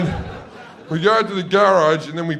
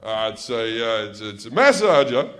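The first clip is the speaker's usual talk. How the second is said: lower, hesitant embarrassed dad; a dad fumbling for a word; mildly embarrassed dad stalling; wry dad; 6 semitones lower than usual. Retold or imitated. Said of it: "smiles wryly to himself and goes".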